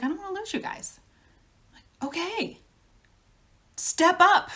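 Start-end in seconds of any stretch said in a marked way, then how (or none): 0.0-1.0 mock sobbing plea. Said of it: "she was sobbing". 2.1-4.5 higher, louder, with a laugh: okay, step up; laughing retort. Retold or imitated. To her sobbing mother, a loud laughing dare.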